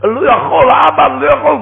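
put-on high pleading little child crying out; like a small child. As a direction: cry out to father like a helpless little child. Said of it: "רק כמו תינוק קטן".

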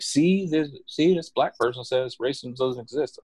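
high-pitched imitation of someone proving a point; mock triumphant arguer. Voices people posting their proof.

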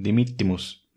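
dimittimus with a held double T; Latin double T. Shown as a demonstration. Showing Latin double consonants. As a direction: hold the TT in dimittimus. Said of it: "se pronuncia la primera letra y a la mitad".

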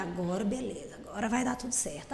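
quiet self-reassurance. Retold or imitated. Fan telling herself on entering the Maracanã, quiet self-talk. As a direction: murmur it privately, as if thinking aloud.

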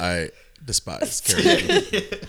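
slow, dead flat disgust; deadpan disdain. Retold or imitated. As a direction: drag out the contempt. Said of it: "just like".

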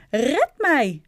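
high, loud cry for rescue; panicked plea. A narrator's reading. Wife to husband as she takes off, panicked plea. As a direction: call out frightened, pitch leaping up.

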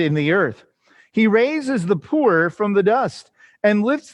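measured, declamatory psalm reading; scripture reading. Acted. Teacher reading the psalm aloud to the class, measured scripture reading. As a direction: read it out in steady phrases, each falling at its close.

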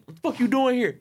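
high-pitched retold outburst; angry. Boyfriend at the table confronting his girl, angry. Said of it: "angry at me".

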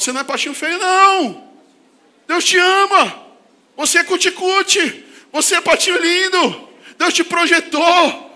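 high, slow doting voice; cooing. Acted. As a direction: coo it like to a baby. Cooing reassurance to neighbour.

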